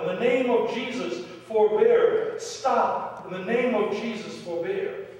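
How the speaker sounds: loud, high-pitched cry to halt; yelled plea. Retold or imitated. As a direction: yell it out over a fighting arena. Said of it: "he yelled out".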